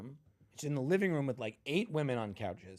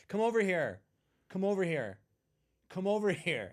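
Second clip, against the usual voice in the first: organizer calling him over; 7 semitones higher, 4 dB louder than usual. Retold or imitated. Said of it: "She goes".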